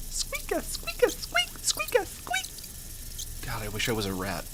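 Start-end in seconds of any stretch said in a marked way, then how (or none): 0.1-3.5 rat squeak. Pretend.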